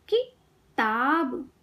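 किताब slowly, pause after कि, long ताब; syllable by syllable. Shown as a demonstration. Teacher teaching kids to read, syllables apart. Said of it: "शब्द पढ़ना सिखाऊंगी".

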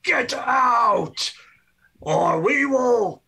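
high, loud, slow ghostly shout; booming spirit voice. Acted. Hidden spirits shout at the party to leave, booming and slow. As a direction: boom it out to scare them off. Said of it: "booming voice of".

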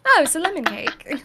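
lightly imitated British accent; British friend's accent. Hearing a friend say it, lightly British accent. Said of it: "in my British friend's voice".

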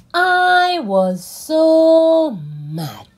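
high, loud, slow stretched-out mad wail; mock furious whine. Child in the story, furious at Dad, in a slow high wail. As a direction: wail it like a cross little kid.

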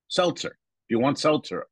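"seltzer" with an "el" sound, meant as salsa. Retold or imitated. Boyfriend retells girlfriend offering salsa, pronounced "seltzer". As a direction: imitate her saying "seltzer" for salsa. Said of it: "She says salsa as seltzer".

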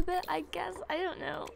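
muttered whisper to herself. Real, not acted. Fan editing her sim, whispering to herself. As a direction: whisper under your breath.

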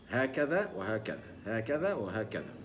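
هكذا وهكذا said slowly while shaping the mouth; mouth drill. Shown as a demonstration. Teacher showing the mouth exercise. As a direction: shape kiss then smile on هكذا وهكذا. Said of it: "وهذا يحتاج إلى تدريب".

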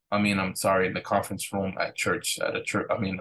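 sleepy, fumbling self-corrections; half asleep. Real, not acted. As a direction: mumble it like you're nodding off. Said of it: "I'm just, like, half asleep".

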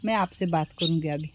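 low, softened consoling voice; gentle reassurance. Real, not acted. Helper tells crying mother not to blame herself, reassuring. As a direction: settle her down, low and soft.

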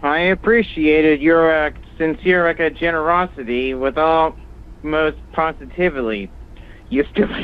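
halting speech with a lisp. Real, not acted. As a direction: stumble through it with a lisp. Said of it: "couldn't hear you over the lisp".

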